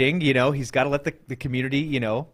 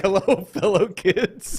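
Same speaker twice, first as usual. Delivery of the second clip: Steve Buscemi; 4 semitones higher, slower than usual. Retold or imitated. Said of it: "he's like".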